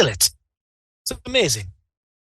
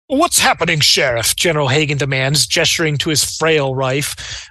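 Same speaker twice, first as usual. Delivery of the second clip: scene narration. Acted. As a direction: set the scene like a storyteller. Game master sets the scene.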